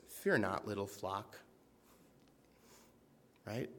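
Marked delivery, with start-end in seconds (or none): 0.1-1.4 tender. Shown as a demonstration. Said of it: "I just love when he talks like this".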